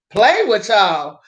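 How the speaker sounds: outraged squeal of disbelief; shocked disbelief. Retold or imitated. Strangers proposition her.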